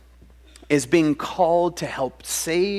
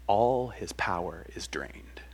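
slow hushed whisper; whispered ending; 5 semitones lower, 5 dB quieter, slower than usual. A narrator's reading. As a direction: let the words drain away. Parable ending.

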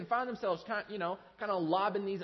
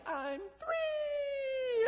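put-on very high squeaky kid voice; proud toddler. Pastor voicing his son announcing his birthday, high proud squeal. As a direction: announce your age like a thrilled little boy. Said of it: "He's like".

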